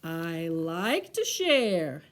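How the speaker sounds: slow, low, drawn-out bear line; contented sigh. Acted. Big Bear happily admits he likes sharing, sighing. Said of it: "Big Bear sighed".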